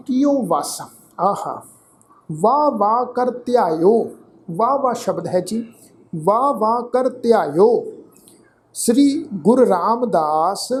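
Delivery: slow, careful scripture reading; slow recitation. Shown as a demonstration. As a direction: recite each phrase slowly for students. Recites scripture slowly for learners.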